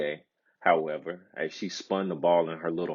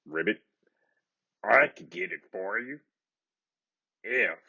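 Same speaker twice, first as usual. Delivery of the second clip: timid scratchy frog. A narrator's reading. Storyteller voicing the frog to the crying princess, timid and scratchy.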